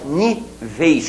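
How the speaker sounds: "níveis" with a closed, unstressed ei ending; slow demo of "níveis", closed final diphthong. Shown as a demonstration. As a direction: stress NÍ, then a closed "veis" in "níveis". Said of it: "com ditongo fechado".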